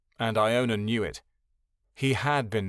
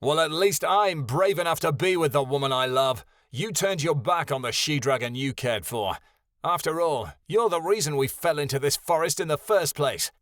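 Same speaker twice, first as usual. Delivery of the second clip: yelling; 3 semitones higher than usual. Acted. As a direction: hurl it back at him. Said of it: "and he yelled".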